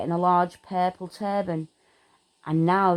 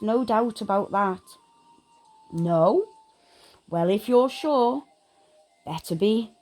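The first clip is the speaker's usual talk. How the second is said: lightly voiced old hat, higher and slowed; Sorting Hat; 4 semitones higher than usual. The Sorting Hat tempting Harry toward Slytherin, lightly voiced. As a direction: coax him, then decide. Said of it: "said the small voice".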